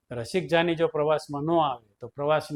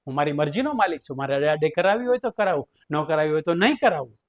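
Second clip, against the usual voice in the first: mock-defiant teacher arguing his rights; cheeky defiant speech to the principal; defiant refusal. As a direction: lecture the boss stubbornly, tongue in cheek. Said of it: "રસિક જાનીએ દાઢી કરાવવાની ઘસી ના પાડી".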